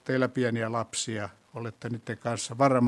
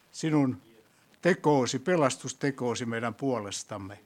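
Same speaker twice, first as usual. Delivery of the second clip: prayer. Acted. Leads closing prayer.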